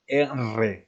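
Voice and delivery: R as a long trilled rr; rolled r sound. Shown as a demonstration. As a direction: trill the R strongly. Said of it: "estamos hablando de esta pronunciación". (R con vibración múltiple)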